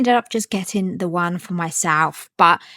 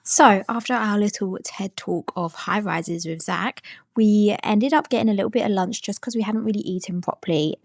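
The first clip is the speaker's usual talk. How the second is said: whispering. Real, not acted. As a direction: whisper it close to the mic. Whispered voiceover.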